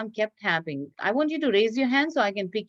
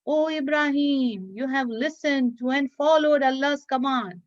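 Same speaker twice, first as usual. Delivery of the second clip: voice calling out; 3 semitones higher than usual. Acted. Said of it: "he heard a voice call out".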